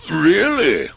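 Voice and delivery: a magician raising an eyebrow; wizard's reply. Acted. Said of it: "said the wizard".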